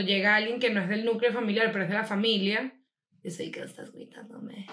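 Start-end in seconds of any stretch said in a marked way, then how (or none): 3.2-4.7 whispered retort. Retold or imitated.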